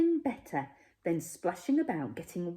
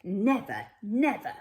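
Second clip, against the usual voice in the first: louder, firm grandmother scolding; speaking her mind; 5 dB louder than usual. Acted. Grandmother forbidding play with the Smeds, louder and firm. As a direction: lay down the law to the child. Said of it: "this is how she spoke her mind".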